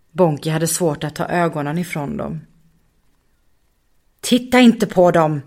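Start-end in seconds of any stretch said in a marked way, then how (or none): 4.2-5.4 firm voice. Acted. Muffin förbjuder Bonki att titta, bestämt. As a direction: lay down the rule calmly but firmly. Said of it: "Muffins bestämda röst".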